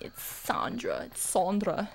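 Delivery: drawn-out "Sandra" as SAHN-dra; aunt correcting pronunciation. Retold or imitated. Aunt correcting her relative, slow SAHN-dra for "Sandra". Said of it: "she would get mad at me".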